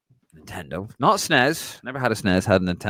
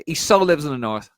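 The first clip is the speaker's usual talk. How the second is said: higher, louder mock-sassy so; 5 semitones higher, 4 dB louder than usual. Teasing co-host Connor about Boxing Day, mock sassy. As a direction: throw the phrase back with sass. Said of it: "Tell him, Dave".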